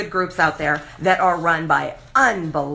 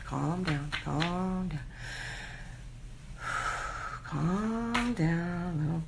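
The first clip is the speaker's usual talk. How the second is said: much softer, murmured to herself; calming herself; 12 dB quieter, much slower than usual. Real, not acted. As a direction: settle yourself down under your breath. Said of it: "I'm getting animated and worked up again".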